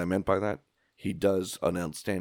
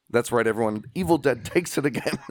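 gleeful announcement; laughing proclaim it; triumphant; 3 semitones higher, 3 dB louder than usual. Real, not acted.

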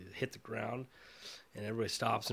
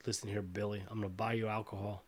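Uncle Mike; 3 semitones lower, 4 dB quieter than usual. Acted. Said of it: "he will say".

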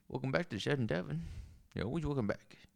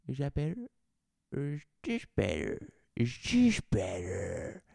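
radio mic test; 3 semitones higher, 3 dB louder than usual. Acted. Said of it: "tune up the audio on this old radio".

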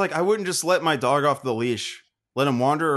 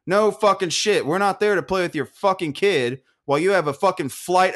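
higher, indignant retort; enraged comeback; 5 semitones higher than usual. Retold or imitated. Drinker answering the scoffing mom, enraged comeback. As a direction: snap back in retold outrage. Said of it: "I was enraged".

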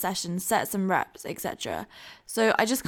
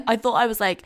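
laughing; 3 semitones higher, 5 dB louder than usual. Real, not acted. Laughing at own past habits.

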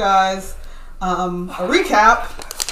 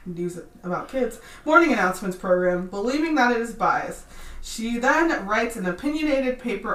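polished, professional reading voice; customer service voice; 3 dB quieter than usual. Real, not acted. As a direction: read it like a front-desk script. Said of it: "Your customer service voice just flipped on like a switch".

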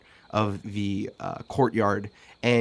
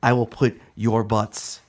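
building, louder threatening speech; rousing boss speech; 4 semitones higher, 3 dB louder than usual. Acted. Half-orc boss threatening her kitchen staff, rising loud. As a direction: whip the troops into line.

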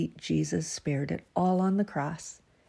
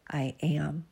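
whispered. Acted. Reading God's words aloud.

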